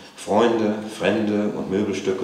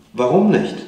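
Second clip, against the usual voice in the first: put-on high, loud child's question; challenging child; 10 semitones higher, 9 dB louder than usual. A narrator's reading. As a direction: demand to know why, pitched up.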